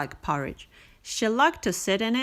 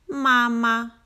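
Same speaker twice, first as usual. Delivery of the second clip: duckling voice; 3 semitones higher, 4 dB louder than usual. A narrator's reading. Duckling's first word.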